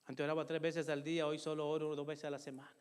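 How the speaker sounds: a hint of a guilty conscience nagging, said quietly; lightly voiced conscience, hushed and rueful. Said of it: "Y empieza mi conciencia".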